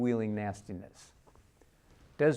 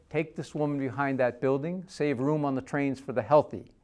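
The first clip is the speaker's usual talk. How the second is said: loud command; 4 semitones higher, 5 dB louder than usual. Acted. Officer orders woman removed.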